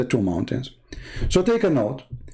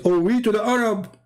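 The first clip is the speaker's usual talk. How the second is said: mock scared cry; 9 semitones higher than usual. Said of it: "And he says".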